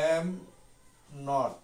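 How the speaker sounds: am and not spaced apart; spelling out am not slowly for students; slow separated words. Shown as a demonstration. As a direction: pause clearly between am and not. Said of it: "এটাকে am not-টা".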